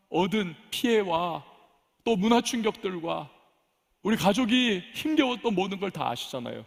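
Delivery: imitated indignant complaint in prayer; retold defiant protest. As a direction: argue with God, pitch climbing as grievances pile up. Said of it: "막 악을 쓰면서 대항을 합니다".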